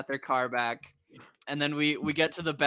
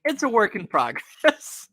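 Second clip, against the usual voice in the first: higher, slow put-on quote; drawn-out mock excuse; 6 semitones higher, 4 dB louder than usual. Retelling a character's excuse for the plan, drawn-out mock excuse. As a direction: stretch it out in a raised voice.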